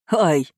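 short mild "ow"; a brief cry as if struck; small involuntary yelp; yelp of pain. A narrator's reading. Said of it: "Последнее вырвалось".

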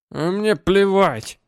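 put-on loud, slow, drunken outburst; drunken shout. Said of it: "Он пьяно качнул головой".

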